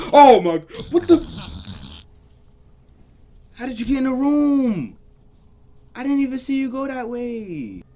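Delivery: high, loud cry of fright; real jump-scare panic, voice shooting up; panicked shout. Real, not acted. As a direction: shriek in alarm at the intruder. Jump scare, threat entered room.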